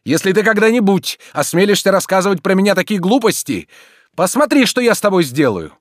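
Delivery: loud, high, rising to a yell on посмотри; furious threat. A narrator's reading. Master threatens servant. (яростная угроза, громко)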